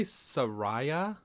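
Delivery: Saraya, said sa-RYE-a with rising doubt; questioned pronunciation. Shown as a demonstration. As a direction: stretch out "Saraya" as a query, RYE in the middle.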